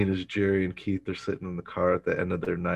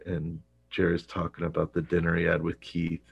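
ordinary talk

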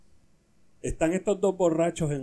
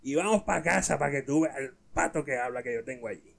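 put-on drunk man. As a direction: play a comic drunk making a bet. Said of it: "Y el otro le dice".

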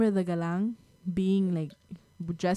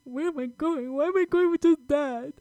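put-on confused child voice; 7 semitones higher than usual.

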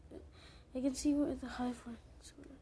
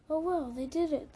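louder, lifted "Oh, wow" of pretend awe; mock amazement; 3 semitones higher, 8 dB louder than usual. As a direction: play the future astonishment big. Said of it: "you'll be like".

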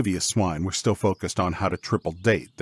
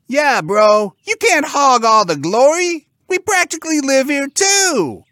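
very high, loud pig bro; squeaky indignant sibling; protesting pig; 11 dB louder than usual. Acted. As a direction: object loudly in a squealing pig voice. Pig joins brother's protest.

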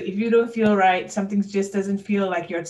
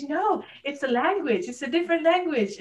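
higher-pitched mock indignant insistence; mad, going off; 7 semitones higher than usual. Retelling a party argument about Appalachian English, indignant. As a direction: act out a worked-up correction. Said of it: "I'm mad and I'm going off".

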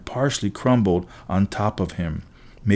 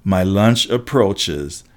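gloating giant; slower than usual. Acted. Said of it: "The giant laughed".

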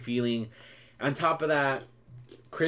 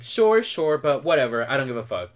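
dismissive attitude; 3 dB louder than usual. Retold or imitated. Crystal ending the fight, dismissive and careless. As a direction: shrug it all away, couldn't care less. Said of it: "that's her attitude".

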